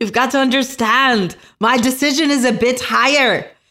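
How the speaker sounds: imitation South African accent. Repeating another speaker's words back at them: South African accent. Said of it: "my South African accent".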